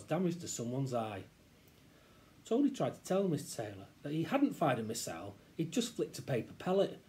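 lively, expressive storytelling; story narration. A narrator's reading. Reader tells children the balaclava tale, storytelling. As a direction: tell it as a child's own tale. Reads story aloud to listeners.

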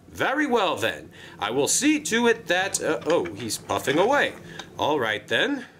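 a jolly controller pitching a job; Sir Topham Hatt voice. Acted. Controller coaxing Wilbert into the job, cheery and high.

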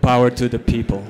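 slogan through a mouthful; chewing while gloating; mouth full. Retold or imitated. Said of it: "I said with my mouth full".

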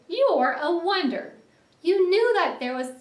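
high, loud admiration; amazed cry. A narrator's reading. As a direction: gush at a clever friend. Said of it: "he cried".

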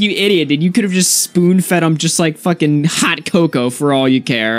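high, giggling mock scolding; laughing quote. Quoting his friend calling him an idiot, laughing.

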